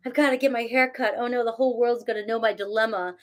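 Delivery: quick, overwrought self-parody; hammed-up drama queen; mock dramatic fretting. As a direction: play up the hair panic, a little rushed. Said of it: "I act like that sometimes".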